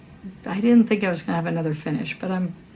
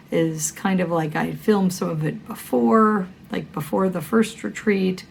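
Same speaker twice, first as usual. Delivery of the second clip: hoarse from a cold; scratchy voice. Real, not acted. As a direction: talk through a scratchy throat. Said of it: "a scratchy voice".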